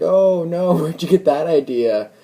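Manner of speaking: high-pitched, overdone reassurance; feigned innocent denial. Retold or imitated. Uncomfortable man to his suspicious date, feigning innocence. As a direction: deny it too brightly, voice jumping up.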